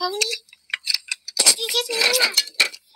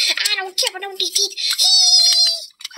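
giggling; 4 semitones higher, 3 dB louder than usual. Real, not acted. Giggling through the loose tooth talk.

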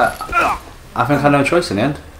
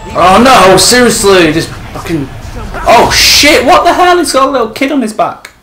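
yelling while running away; 10 semitones higher, 6 dB louder than usual. Real, not acted. Chased again, shrieking.

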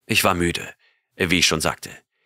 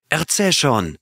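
raised, eager plea; pleading; 7 semitones higher than usual. A narrator's reading. Leroy begs Jarvis to continue the story, pleading. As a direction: beg him to go on. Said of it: "flehte Leroy".

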